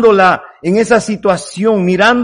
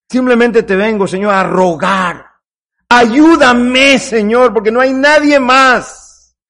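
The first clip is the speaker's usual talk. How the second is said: humble plea to God. Acted. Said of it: "Clamaba a Dios diciéndole".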